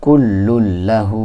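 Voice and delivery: কুল্লুল্লাহু drawn out slowly, doubled ল held; slow recitation. Shown as a demonstration. Teacher modelling the word for students, slow. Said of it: "তারপরটার মধ্যে চলে আসি".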